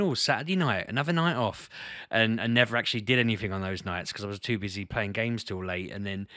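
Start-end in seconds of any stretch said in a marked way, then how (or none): 0.0-1.7 mock delight. Acts out relieved past thoughts.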